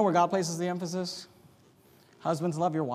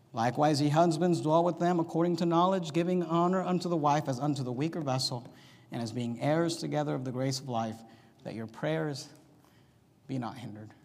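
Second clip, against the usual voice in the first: calm reading; 2 semitones lower than usual. Shown as a demonstration. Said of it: "place the emphasis where God places".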